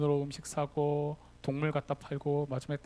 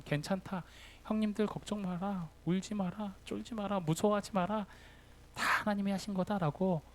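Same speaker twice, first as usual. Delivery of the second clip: comforting brothers; 4 semitones higher than usual. Retold or imitated. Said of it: "안심시켜줍니다".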